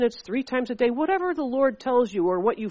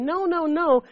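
higher-pitched mild mock protest; mock crying protest; 6 semitones higher, slower than usual. Flesh objecting to getting up at five, mildly mock-crying. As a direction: imitate a reluctant whine, pitched up. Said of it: "My flesh was crying and saying".

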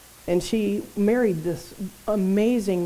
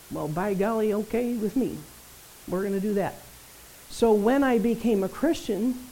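normal talking voice

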